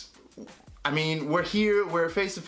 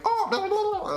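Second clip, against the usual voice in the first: high, laughing gibberish; hammed-up babble in place of French; mock foreign chatter. Bridesmaids chatter back, high mock gibberish. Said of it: "They're like".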